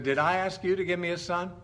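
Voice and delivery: fighting back tears as he retells it; a grieving mother's reproach, voice choked. Real, not acted. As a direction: voice catching with real emotion. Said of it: "I cannot tell that story without getting choked up".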